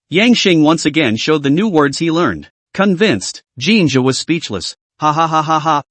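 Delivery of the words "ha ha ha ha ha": mild read-aloud ha ha laugh; lightly laughing ha ha; burst of laughter. A narrator's reading. Roommate bursting out laughing at the accent. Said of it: "Shin Mo directly burst out laughing".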